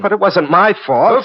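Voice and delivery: high pleading protest, slow; desperate protest. Acted. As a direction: begs to be believed, voice jumping up. Pleading against accusation.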